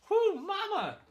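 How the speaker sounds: high, loud exclamation; loud whoop. Real, not acted. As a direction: blurt out, overwhelmed by the smell. Reacting to a potent candle smell.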